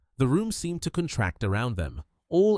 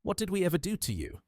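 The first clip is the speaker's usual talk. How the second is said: anguished; 9 semitones higher, faster than usual. A narrator's reading. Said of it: "Richard's voice was anguished".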